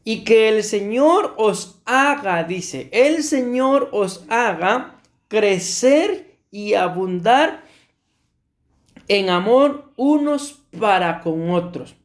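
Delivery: slow, deliberate Bible reading; measured, emphatic verse reading from the pulpit; scripture reading. Real, not acted. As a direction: read the verse out slowly, leaving long pauses. Reads a Bible verse aloud.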